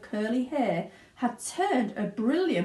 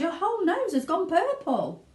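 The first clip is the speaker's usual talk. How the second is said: mild shout; 11 semitones higher than usual. Acted. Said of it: "shouted Mister Beauregard".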